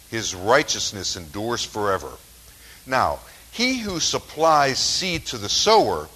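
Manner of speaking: deliberate, emphatic Bible reading; Scripture reading. Acted. Preacher reading Corinthians to the congregation, deliberate and emphatic. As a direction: read the verses out with weighty stresses.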